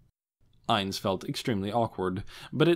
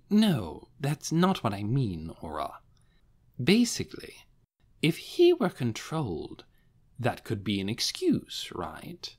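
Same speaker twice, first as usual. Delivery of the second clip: lightly voiced youthful guardian; 2 semitones higher than usual. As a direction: explain patiently in a slightly younger voice. Aura's friend voiced for Aura.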